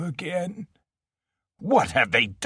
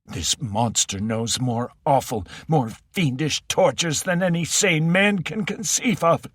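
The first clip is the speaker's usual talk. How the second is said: put-on high, frantic old voice; near hysteria; 7 semitones higher than usual. Ocken begging Andy to give in, near-hysterical. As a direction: plead in rising terror. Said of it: "close to hysteria".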